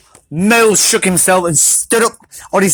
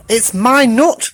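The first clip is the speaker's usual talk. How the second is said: raised pitch, drawn out slowly; high slow claim; 6 semitones higher, slower than usual. Acted. Squirrel Pecan claiming the nut, high and slow.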